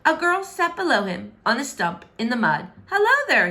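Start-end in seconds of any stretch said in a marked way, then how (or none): 2.9-3.5 prince greeting. Acted. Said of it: "he said".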